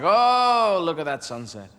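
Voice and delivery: lightly voiced bird, swooning then hushed; talking mynah bird. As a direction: admire it as a smooth mynah bird. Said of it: "they say things like".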